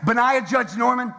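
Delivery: stern parent. Retold or imitated. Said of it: "pull out the last name, you in trouble".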